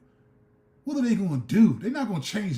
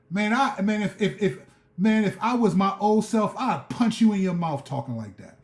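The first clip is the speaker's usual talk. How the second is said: raised, heated voice; heated outburst; 4 semitones higher than usual. Real, not acted. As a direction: let the frustration boil over. Angry at believers.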